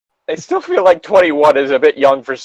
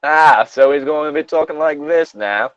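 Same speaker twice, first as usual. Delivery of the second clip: badly faked English accent; terrible English accent; 4 semitones higher than usual. Shown as a demonstration. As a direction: announce it in a hammy English accent. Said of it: "That is a terrible English accent".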